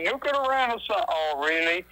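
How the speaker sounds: incredulous, high-pitched jab; scoffing disbelief. Real, not acted. Activist ridiculing the nuclear renaissance to the host, scoffing.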